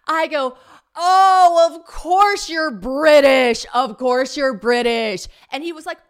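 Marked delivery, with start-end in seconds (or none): 1.0-5.3 loud, high, drawn-out outburst; losing it. Retold or imitated. Woman snaps at British man in a bar, unhinged shouting. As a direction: bellow it slowly in re-enacted outrage. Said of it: "and I lost my marbles".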